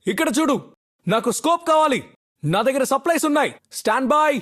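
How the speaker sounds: projected, urgent in-game commands; urgent callouts. Acted. Player directing squad to the safe zone, urgent calling out. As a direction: call out orders to the squad.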